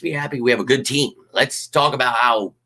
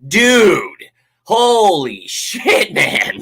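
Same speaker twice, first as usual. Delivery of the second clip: much higher, slow, drawn-out dude holy shit; exasperated outburst; 9 semitones higher, 5 dB louder, much slower than usual. Real, not acted. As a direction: disbelief at a petty fan. Exasperated reaction to commenter.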